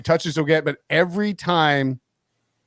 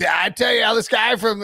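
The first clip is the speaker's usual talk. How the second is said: booming analyst voice, a bit higher; Herbstreit impression; 6 semitones higher than usual. Imitating a TV analyst breaking down the play, mildly raised. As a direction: hype it like a TV color commentator. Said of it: "He's like".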